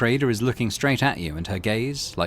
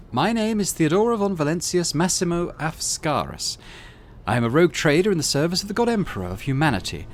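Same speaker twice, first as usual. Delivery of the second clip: high, cold commanding woman's voice; imperious rogue trader; 5 semitones higher than usual. Acted. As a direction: lay out the test like a superior.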